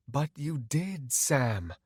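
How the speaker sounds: calm, measured reproach; composed, unmoved doctor; detached doctor. Acted. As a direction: explain coolly to the patient. Doctor character interrupts.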